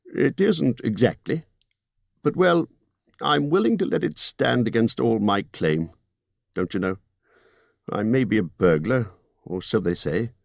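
高めの声で念を押すホビット; 利益の取り分を強調する商談口調; Bilbo's voice. Acted.

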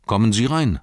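gatekeeper welcoming. Acted. Gatekeeper opening the gate for travellers, friendly call. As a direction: call them in out of the rain. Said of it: "sagte er".

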